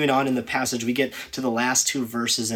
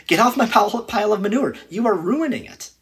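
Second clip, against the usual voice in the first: loud, high shout shooing someone off; hammed-up angry shout of an owner; mock angry yell; 9 semitones higher, 7 dB louder than usual. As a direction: yell them off your pile in pretend anger. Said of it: "I would say".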